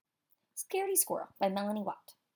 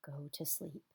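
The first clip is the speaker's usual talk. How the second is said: much softer and lower, drifting off; sleepy murmur; 6 semitones lower, 13 dB quieter than usual. A narrator's reading. Storyteller softly putting the squirrel to bed. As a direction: say it as if falling asleep.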